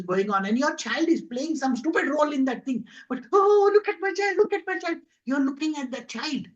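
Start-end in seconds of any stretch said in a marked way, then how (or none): 3.3-5.0 high, delighted mock boast; proud parent. Parent watching child on stage, gushing high with pride. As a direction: gush like a doting parent at the school play.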